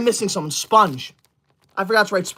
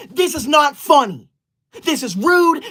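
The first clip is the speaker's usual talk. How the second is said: angry scolding; 3 semitones higher than usual. Real, not acted. Scolding viewers for cat ears.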